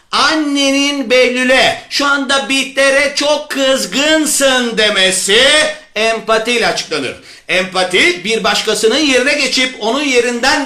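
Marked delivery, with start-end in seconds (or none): 1.9-4.8 empathetic mother. Acted. Teacher repeats mother's empathic line.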